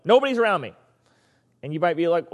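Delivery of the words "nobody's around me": crying out. Retold or imitated. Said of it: "So he's crying out".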